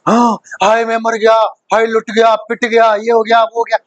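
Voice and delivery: hammed-up wailing lament; mock panic. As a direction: rattle off a pretend oh-I'm-ruined fuss. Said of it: "मैंने कोई हड़बड़ी नहीं". (घबराहट का नाटक)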